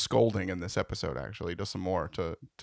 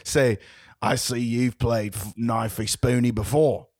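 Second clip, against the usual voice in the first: put-on Australian accent; slower than usual. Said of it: "on my way down under".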